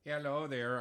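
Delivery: put-on hello in a Wisconsin accent. Co-host keeping last week's act going, Wisconsin accent. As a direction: greet in a mild Wisconsin accent. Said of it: "didn't feel like dropping the accent".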